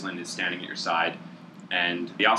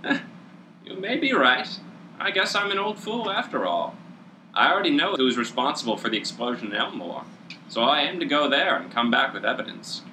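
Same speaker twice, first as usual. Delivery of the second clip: put-on old dragonborn voice; 6 semitones higher than usual.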